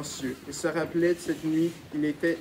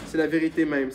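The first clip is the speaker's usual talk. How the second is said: exclaimed; 4 dB louder than usual. Acted. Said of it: "s'écria Dieu vieil".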